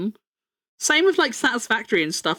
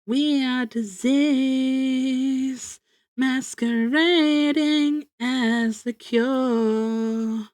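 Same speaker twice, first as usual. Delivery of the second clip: dramatic recital; much slower than usual. Pretend.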